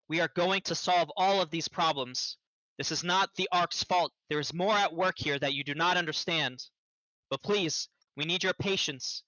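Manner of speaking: big booming voice, projecting over a crowd; booming magic voice. Acted. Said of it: "shouts out with a booming voice".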